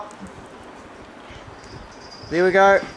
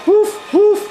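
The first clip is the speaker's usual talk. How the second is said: dog barking; 11 semitones higher than usual. Pretend. Playing a dog for the cat.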